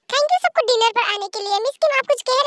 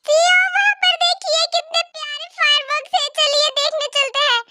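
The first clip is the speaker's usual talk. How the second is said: put-on drunk; 3 semitones higher than usual. Drunk employee calls out to CEO.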